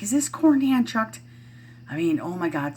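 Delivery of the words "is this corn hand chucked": higher quoted movie line; lightly voiced Bill Murray delight; retelling a movie quote in a higher voice. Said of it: "then he's like".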